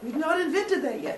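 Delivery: high, giggling apology; laughing gods. Retold or imitated. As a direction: say it through a laugh, mock sorry. Gods answering Zeus, laughing.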